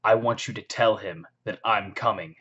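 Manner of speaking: measured, deliberate menace with pauses; badass threat. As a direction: deliver a cool, unhurried threat. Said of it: "it's just so badass".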